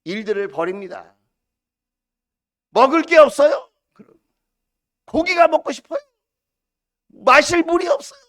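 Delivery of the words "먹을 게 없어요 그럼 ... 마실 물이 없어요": high, loud whining questions; hammed-up grumbling; mock complaining. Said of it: "끊임없이 불평과 불만과".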